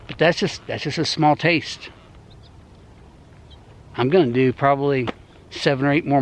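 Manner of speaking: talking with a retainer in; slight retainer lisp; wearing a retainer. Real, not acted. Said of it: "I got my retainers in".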